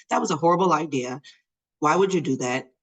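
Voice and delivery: mild, quick mock scolding; retold going off. Mom to daughter after the rescue, going off. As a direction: act out telling a child off. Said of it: "I'm, like, going off".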